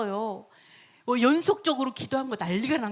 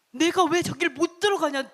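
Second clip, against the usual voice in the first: raised indignant protest; mock outrage; 3 semitones higher, 4 dB louder than usual. King raging at being kept out, indignant. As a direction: play a king mildly blowing up. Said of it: "노발대발".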